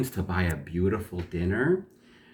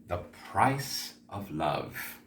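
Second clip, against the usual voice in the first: slow, softer title announcement; hushed title reveal; 6 dB quieter, slower than usual. A narrator's reading. Storyteller announces the story's title to listeners, hushed and slow. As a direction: unveil the title slowly and quietly.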